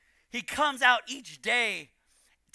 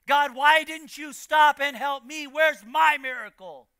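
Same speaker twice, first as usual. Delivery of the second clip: louder, higher aggrieved plea; anguished complaint to God; 6 semitones higher, 8 dB louder than usual. Acted. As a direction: cry out to God in mounting frustration. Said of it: "And then the anger builds".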